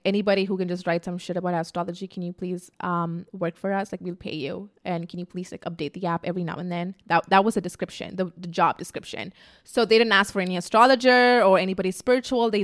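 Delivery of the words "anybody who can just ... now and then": soft, begging tone, much softer; mock pleading recruiter. CoStar begging for a writer, soft mock plea. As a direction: beg lazily for anyone. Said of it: "they were like".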